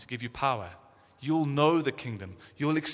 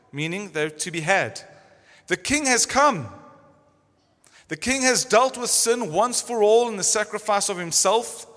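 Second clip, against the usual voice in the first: preaching; 2 semitones higher, 3 dB louder than usual. Acted. Reading Piper quote aloud.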